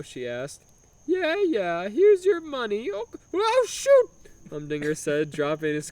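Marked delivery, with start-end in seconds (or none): 1.1-4.1 high, hammed-up flustered Italian. Humdinger dropping his coin at the window in mock Italian. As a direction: fumble the coins in broken Italian. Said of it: "obnoxious broken Italian accent".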